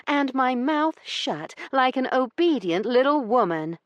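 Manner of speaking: high, scornful lady's voice; a proud lady mocking his idea; indignant young lady. A narrator's reading.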